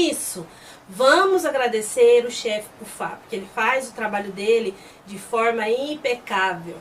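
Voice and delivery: slow, drawn-out sarcastic praise; ironic. Retold or imitated. Tien praising the chief before the children, heavily ironic. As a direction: stretch the praise words with pointed irony. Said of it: "bem irônico, fala assim".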